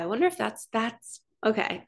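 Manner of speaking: stumbling over the words; halting stutter, words tripping. Real, not acted. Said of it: "That's why I'm stuttering".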